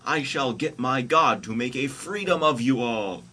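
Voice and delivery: high, loud heroic declaration; Moses' vow. Acted. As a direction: declaim it like a comic hero. Moses' vow in comic story.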